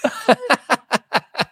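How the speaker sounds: high helpless laugh; can't stop laughing; horrified amusement. Real, not acted. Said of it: "Why am I laughing?".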